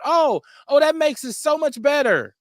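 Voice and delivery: high, mock-eager voice of the guys in the background; high mocking impression of the rapper's friends; mocking the background dudes. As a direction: imitate hangers-on trying to smooth it over.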